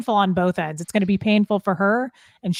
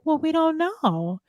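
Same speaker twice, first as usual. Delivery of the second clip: mock dismissive; 8 semitones higher, slower than usual. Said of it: "she's like".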